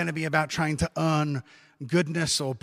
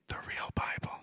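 hushed, whispered joking aside; mock whisper; 13 dB quieter than usual. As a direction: whisper it as a cheeky confidential aside. Joking aside on Bible versions.

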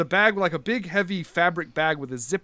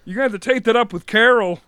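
Bobcat Goldthwait voice; 5 semitones higher, 6 dB louder, faster than usual. Acted. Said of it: "now I'm turning, like, Bobcat Goldthwait".

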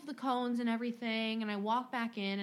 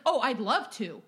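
louder, snippy retort; mock sarcastic huff; 7 dB louder than usual. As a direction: snap it back sarcastically like the customer. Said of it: "he's like".

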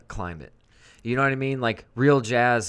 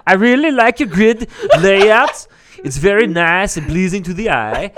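high put-on voice; 8 semitones higher, 9 dB louder than usual. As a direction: gush in a silly falsetto.

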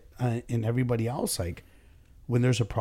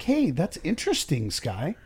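higher, sugary calm inquiry; mock friendly; 4 semitones higher than usual. Boss shows the calm way to answer an angry customer, mock friendly. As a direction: sweeten it like a patient customer rep. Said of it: "And be like".

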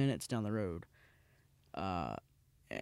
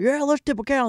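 high, loud hammed-up cheer; mock excited cheer; 13 semitones higher, 8 dB louder than usual. Friends cheering to tip a cow, high mock cheer. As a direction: egg on the crowd with glee. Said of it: "everyone's just, like, freaking out".

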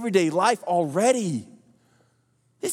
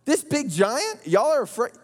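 David in disbelief; 6 semitones higher than usual. Retold or imitated. David mocking the scared army, pitched way up in disbelief. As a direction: voice jumping much higher in disbelief. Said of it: "David's like".

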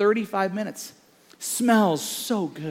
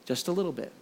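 dawning realization; 9 dB quieter, faster than usual. Retold or imitated. Son realizes the lesson.

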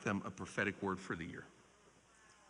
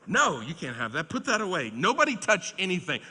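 a louder, higher mock-stern dad at the gift shop; stern dad refusal; 7 semitones higher, 7 dB louder than usual. Father telling his daughter no in a Disney shop, mock stern. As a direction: lay down the law to the kids, half-playing it up.

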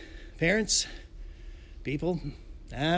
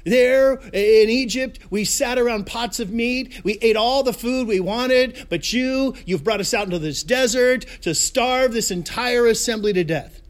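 raised-voice, melodramatic griping; grumbling complaint; 3 semitones higher, 4 dB louder than usual. Acted. Hungry Israelites to Moses in the desert, complaining bitterly. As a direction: stretch the first words and pile on the blame.

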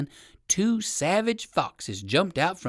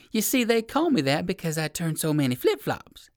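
lightly voiced little dog, higher; eager little poodle; 4 semitones higher than usual. Poodle explaining his name to the rabbit, chirpy.

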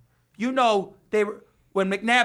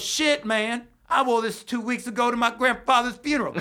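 imitating Justin; 4 semitones higher than usual. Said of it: "That's how he talks".

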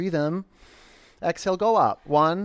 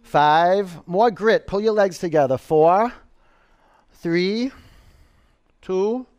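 loud coach push; 4 semitones higher, 7 dB louder, slower than usual. Real, not acted. Driving final countdown.

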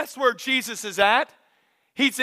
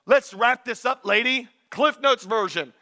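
lightly voiced fed-up father, pitched up slightly; impatient dad. Waiting dad to the healed woman, mildly exasperated. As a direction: hurry her along like a waiting dad. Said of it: "the dad is sitting there going".

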